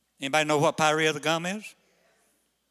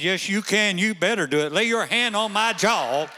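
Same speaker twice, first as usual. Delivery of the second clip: insisting; 4 semitones higher, 4 dB louder than usual. Retold or imitated. Husband insisting wife lay her hand on his jaw, firm demand. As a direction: press her to do it now. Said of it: "I said".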